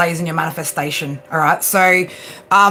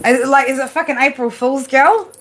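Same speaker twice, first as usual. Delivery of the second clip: can't believe it, teasing; incredulous; 5 semitones higher than usual. Real, not acted. Streamer teasing viewer Bear, high and incredulous.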